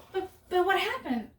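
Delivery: high-pitched, stammering mock confusion; imitated bafflement. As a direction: play dad at a loss. Retold baffled dad questions her.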